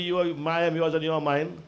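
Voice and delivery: subdued imitation of a lover's line; mock sweet-talk. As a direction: toss off a lover's empty promise. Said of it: "don't fool the lady and tell the lady".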